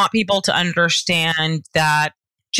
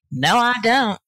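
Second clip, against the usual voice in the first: put-on Southern accent; 4 semitones higher than usual. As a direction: say it like a Georgia local. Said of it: "I just use a Southern accent".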